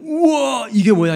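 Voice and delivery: high-pitched burst of wonder; big acted wow, starting high; amazed at first. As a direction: exclaim as if seeing a marvel. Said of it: "처음에는".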